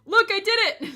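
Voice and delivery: high, loud and thrilled; proud squealing look-at-me; excited shout. Real, not acted. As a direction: show it off, beaming. Shows off invisible costume.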